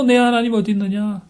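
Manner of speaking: mocking taunt. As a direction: voice the enemies' scornful question, lightly mocking. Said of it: "비꼬고 또 조소합니다".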